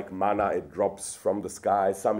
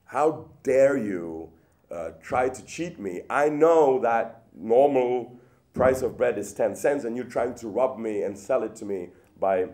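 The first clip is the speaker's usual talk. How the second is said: mock outrage. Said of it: "storm out at him and say".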